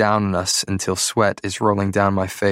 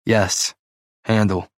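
sighing; slower than usual. Acted. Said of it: "I sigh".

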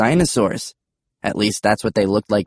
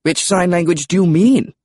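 British pterodactyl, pitched high; high British character voice; British accent; 8 semitones higher, 3 dB louder than usual. A narrator's reading. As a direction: ask as a very British dinosaur. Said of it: "British accents were unexpected".

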